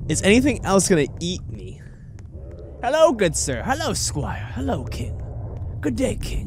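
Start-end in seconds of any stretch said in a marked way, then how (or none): 2.8-6.5 mock-courtly hello, pitched high; playful formal greeting. Greeting the king and squire in the game, playfully courtly. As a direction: hail them in a high, playful voice.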